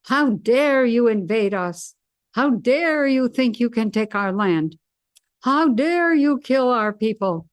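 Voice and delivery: hammed-up outraged leader yelling at invaders; mock Zelensky shouting. Imitating Zelensky shouting at the Russians in the public square. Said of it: "shout at the Russians".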